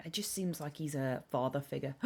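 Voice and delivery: whispered, voiceless aside. Real, not acted. Streamer whispers while watching crows. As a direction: hush so the crows stay.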